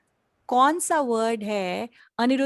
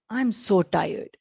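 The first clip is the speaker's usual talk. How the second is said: slow demo; 3 semitones lower, much slower than usual. Shown as a demonstration. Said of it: "कभी आपने बोला है".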